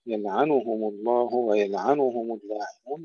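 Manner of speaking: يلعنهم with every ضمة said in full; full dammas. Shown as a demonstration. Teacher showing students the full vowels of يلعنهم. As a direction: voice each ضمة fully in يلعنهم, none dropped. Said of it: "انتبهوا إلى تحقيق الضم".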